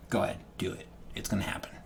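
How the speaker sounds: soft whisper, no voice; whispered go-ahead. Retold or imitated. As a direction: breathe it out as a secret green light. DM encouraging players, retold.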